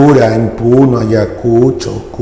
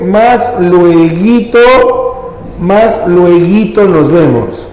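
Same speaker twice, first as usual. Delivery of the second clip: slow, drawn-out reading of the example; slow classroom reading; slow reading aloud; 4 semitones higher, much slower than usual. Shown as a demonstration. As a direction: read it out slowly for the class. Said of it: "Siguiente dice".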